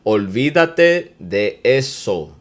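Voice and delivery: Olvídate de eso said very slowly; slow demo. Shown as a demonstration. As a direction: drag it out for learners. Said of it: "O L V I D A T E".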